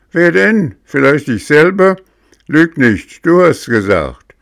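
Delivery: high, loud angry bickering; heated quarrel. A narrator's reading. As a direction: snap back hotly. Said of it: "Immer hitziger wird der Streit".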